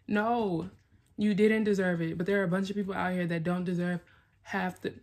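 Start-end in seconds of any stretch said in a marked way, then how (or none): 0.1-2.2 emphatic insistence. Real, not acted. Firm pep talk to herself.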